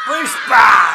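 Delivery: loud, excited group shout with laughter; crowd shout. Real, not acted. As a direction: yell the film name back as one. Crowd shouting film name.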